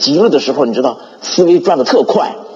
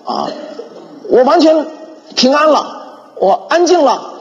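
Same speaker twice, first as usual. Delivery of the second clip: higher, triumphant prayer voice breaking into a laugh; joyful proclamation; 6 semitones higher than usual. Retold or imitated. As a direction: proclaim your healing with rising joy. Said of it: "这么宣告".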